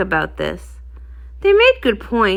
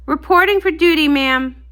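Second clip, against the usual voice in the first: startled report; 5 semitones higher than usual. Acted. Rockhoof jolts awake to report.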